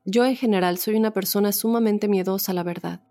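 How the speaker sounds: measured read-aloud testimony, pauses between phrases; story narration. A narrator's reading. Host reads a listener's ghost story to the audience, story narration. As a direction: read it out as a first-person true tale.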